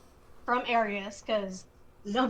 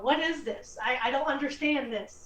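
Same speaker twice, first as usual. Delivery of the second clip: acted bewildered panic, pitched up; freaking out; 4 semitones higher than usual. Archer startled by a sudden werewolf, freaking out. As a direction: play someone starting to freak out, half in earnest. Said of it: "start freaking out".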